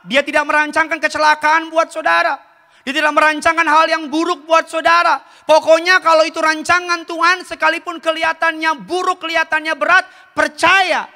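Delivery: high, emphatic preacher's voice; preaching. Acted. Preaches at raised pitch. (khotbah berapi-api dengan nada tinggi)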